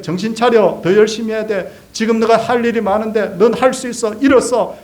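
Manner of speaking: put-on insistent, pressing lecture to a child; urging pep talk. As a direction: imitate a parent pushing a child to get up. Acts out parent pushing burned-out child.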